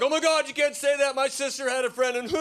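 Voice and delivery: high, upset mock-American whine; offended American. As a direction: play it scandalised and close to tears. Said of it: "America's like".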